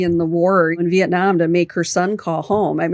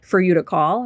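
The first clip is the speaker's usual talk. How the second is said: exasperated scolding. Retold or imitated. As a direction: brush off their whining, fed up. Scolding the complaining sons.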